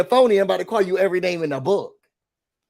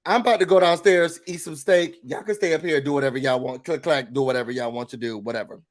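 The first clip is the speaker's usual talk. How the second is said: dismissive fading quote; 2 semitones lower than usual. Retold or imitated. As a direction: brush everyone off and trail away. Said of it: "she says".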